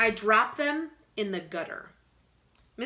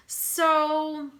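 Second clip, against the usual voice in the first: whisper; 8 semitones higher, 5 dB louder than usual. Real, not acted. Whispered aside.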